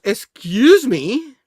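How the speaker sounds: high, slow, drawn-out "Excuse me"; exaggerated polite voice. Someone goes, retold game scene.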